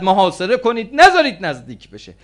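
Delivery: high, loud shouted command; urgent shout. Acted. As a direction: yell out an alarmed order to the troops. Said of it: "عمرو عاص فریاد زد".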